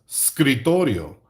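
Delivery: "scrittorio" said as Italian; Italian pronunciation. Shown as a demonstration. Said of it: "In Italian".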